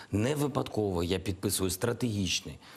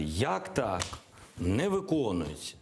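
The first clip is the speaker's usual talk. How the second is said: mildly raised, indignant quoted protest; mock outcry; 2 semitones higher than usual. President imitating Ukraine crying out at the door, mock outcry. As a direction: act out a half-hearted cry of complaint. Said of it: "і кричати".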